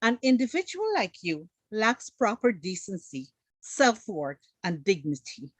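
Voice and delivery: a hint of prim, proper English, lightly voiced. Shown as a demonstration. Mocking the host's proper English, lightly posh. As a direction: put it the way a polite, proper speaker would. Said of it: "So Marla would say".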